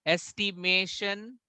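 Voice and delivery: "Estimation" slow, syllables spread, rising at the end; slow, open-ended "Estimation"; questioning demo. Shown as a demonstration. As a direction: leave "Estimation" hanging for the class. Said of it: "where will it go".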